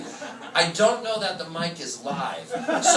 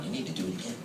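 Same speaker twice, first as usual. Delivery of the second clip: imitating echo; 8 semitones lower, 12 dB quieter, much faster than usual. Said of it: "the girl from Comcast is going".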